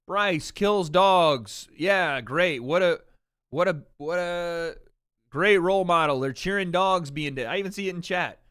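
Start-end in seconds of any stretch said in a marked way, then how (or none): 0.1-7.5 lightly voiced scandalized Twitter crowd, drawn-out "Bryce kills dogs"; imitating sassy online outrage; mock sassy critics. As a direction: mimic outraged Twitter users, half-mocking. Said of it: "people getting a little sassy".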